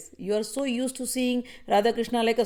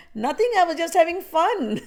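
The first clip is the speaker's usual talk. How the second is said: playful Krishna; 7 semitones higher, 3 dB louder than usual. Acted. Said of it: "Shri Krishna is like".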